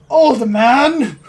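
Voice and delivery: loud, high, angry bark; rough angry tone. Acted. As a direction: snap it at the old man. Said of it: "in a rough, angry tone".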